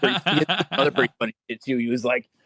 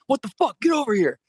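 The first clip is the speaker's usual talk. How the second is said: mock yell; 12 semitones higher than usual. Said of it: "He's like".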